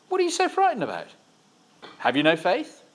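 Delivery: high, questioning rebuke of fear; gentle rebuke. Acted. Jesus asking his frightened disciples, a gentle high rebuke. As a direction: chide them kindly for fearing. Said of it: "He replied".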